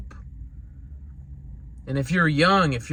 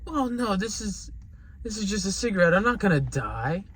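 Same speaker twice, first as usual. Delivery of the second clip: reassuring father; 5 semitones higher than usual. Retold or imitated. Father reassuring crying daughter, retold.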